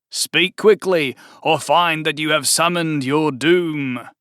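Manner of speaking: slow, looming threat from a summoned demon; lightly voiced monster, slow and grand; menacing fiend. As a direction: fiend warning the cultists to speak quickly, menacing. Fiend speaking to cult.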